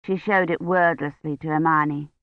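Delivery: usual speaking voice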